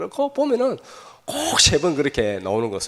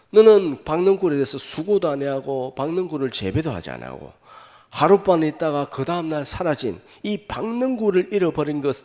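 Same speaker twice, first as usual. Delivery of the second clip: God reasoning; 3 semitones higher, 3 dB louder than usual. Acted. Pastor voices God reasoning, building.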